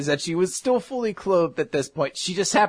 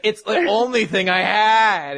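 higher, drawn-out plea; mock whiny excuse; 4 semitones higher, 4 dB louder than usual. Teacher excusing her outfit to student, mock whiny. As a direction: stretch it into a laughing mock whine.

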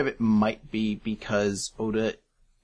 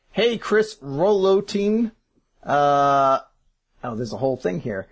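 Lumpy Space Princess voice; 3 semitones higher, 4 dB louder than usual. Retold or imitated. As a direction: read it as a spoiled cartoon princess. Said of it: "this lumpy space princess voice".

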